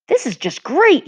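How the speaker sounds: high bitter exclamation; exclaiming. Acted. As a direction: burst out sarcastically. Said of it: "he exclaimed".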